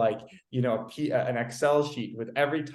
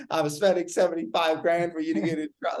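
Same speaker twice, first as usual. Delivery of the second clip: slightly raised, mock-angry father; furious dad; 4 semitones higher than usual. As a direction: imitate an exasperated dad's scolding. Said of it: "everybody's furious with me".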